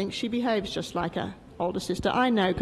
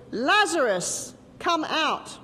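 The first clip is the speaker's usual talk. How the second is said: calling out, a little louder and slower; 5 semitones higher, 3 dB louder, slower than usual. Acted. Jesus calling Lazarus out of the tomb, loud call. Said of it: "called out in a loud voice".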